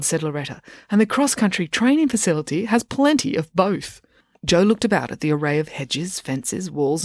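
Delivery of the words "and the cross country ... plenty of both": put-on bossy coach girl. Loretta explains.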